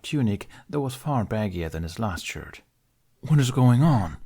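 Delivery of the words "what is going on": alarmed dragon asking; Toothless voice. A narrator's reading. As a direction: ask with sudden alarm. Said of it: "Toothless asked".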